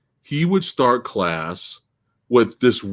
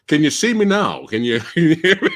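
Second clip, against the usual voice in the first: mock streamer; 2 semitones higher than usual. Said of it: "The whole stream is gonna be".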